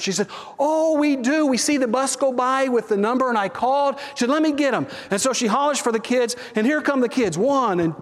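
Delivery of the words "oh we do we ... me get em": eager mother. Retold or imitated. Pastor voices pleased mother.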